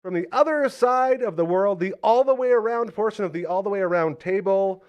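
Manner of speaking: loud, high ring-announcer intro; booming pumped announcer. Acted.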